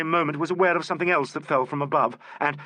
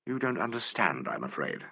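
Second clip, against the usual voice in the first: softer, lower and kind; kindly; 9 semitones lower, 8 dB quieter than usual. A narrator's reading. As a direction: gently let him down. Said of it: "said Alan kindly".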